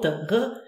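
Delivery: "R" made back in the throat. Shown as a demonstration. Teacher comparing the German R to French, throaty sound. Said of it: "The German R from the throat".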